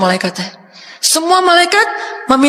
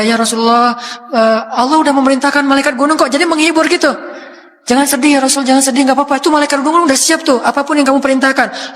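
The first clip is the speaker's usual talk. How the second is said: comforting; 3 semitones higher than usual. Acted. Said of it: "kayak ada seorang anak yang nangis".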